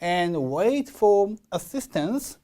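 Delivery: very slow "And wait for assistance", set off by a break; break, then draw out "And wait for assistance"; pause before And. Shown as a demonstration. Teacher showing where to pause, slow phrase starting at "And". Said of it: "and 앞에서 끊어주셔야죠".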